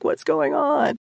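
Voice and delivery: startled alarm in the dark; retold panic. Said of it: "shaking and freaking out".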